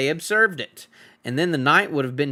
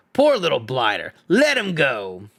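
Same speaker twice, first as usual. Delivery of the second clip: pitying troll. Acted. William pities hobbit.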